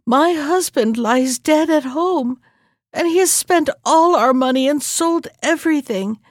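mock grieving widow's sob; sobbing. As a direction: pretend to weep before the Sultana. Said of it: "sobbed the wife".

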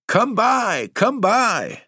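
very high, shrill goblin hawking, falling at the end; goblin cry. Acted. Goblins calling to the maids to buy fruit, shrill high cry. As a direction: screech it like a goblin peddler luring buyers. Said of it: "maids heard the goblins cry".

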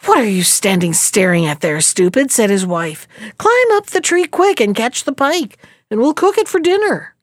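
a hint of a sharp old wife; scolding wife. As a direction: order the dull husband up the tree. Wife scolds and orders husband.

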